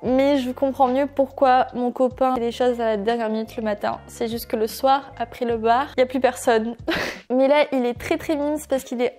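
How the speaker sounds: giggly tipsy talk after a spritz. Real, not acted. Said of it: "je suis pompette".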